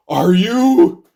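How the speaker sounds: high, loud incredulous question; mock suspicious question. Everybody suddenly questions Madeline, mock suspicious question.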